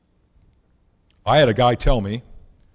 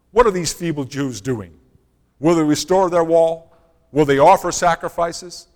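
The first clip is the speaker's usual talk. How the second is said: mocking; 3 semitones higher, 4 dB louder than usual. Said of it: "mocking them".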